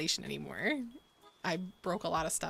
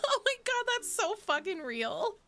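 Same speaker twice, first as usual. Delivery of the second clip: much higher, stretched out; gleeful recognition, pitch jumping up; squealing delight; 13 semitones higher than usual. Real, not acted. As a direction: burst of excited agreement, slowing on the end. Delighted agreement with chat's confession.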